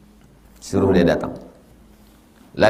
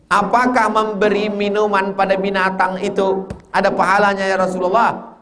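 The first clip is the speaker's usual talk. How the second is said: much higher, earnest question; companion asking; 10 semitones higher than usual. Retold or imitated. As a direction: ask the Prophet eagerly.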